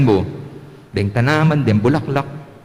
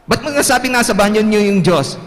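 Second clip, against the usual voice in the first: higher curious teacher; teacher asking why; 8 semitones higher than usual. Pretend. Teacher asking Reynold why, higher voice. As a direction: ask why like a puzzled teacher.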